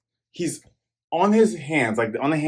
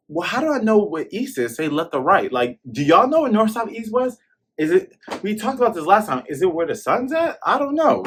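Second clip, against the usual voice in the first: high whiny mock confusion; voicing Zoro; 7 semitones higher than usual. Zoro lost in the forest without a compass, high whiny voice. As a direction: play him lost and baffled. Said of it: "Zoro's like".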